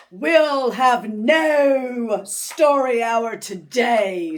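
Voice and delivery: loud, slow, harsh witch shout. Acted. Miss Swamp cancelling story hour, slow harsh shout. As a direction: bark it down at the class. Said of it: "said Miss Swamp".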